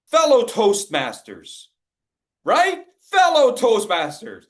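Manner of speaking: slow, stiff, formal address with arms frozen; mock a wooden club speaker; stiff meeting speaker. Shown as a demonstration. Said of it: "Isn't this what you see in meetings?".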